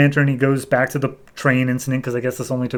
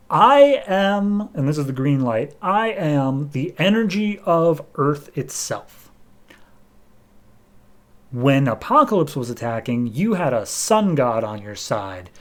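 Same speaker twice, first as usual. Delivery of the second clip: solemn cosmic voice; slower than usual. Retold or imitated. Cosmic being's pronouncement.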